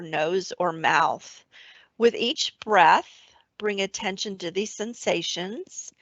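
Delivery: calm, even meditation voice; guided meditation. Acted. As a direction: guide the listener gently back to the breath. Leads an awareness of breath meditation.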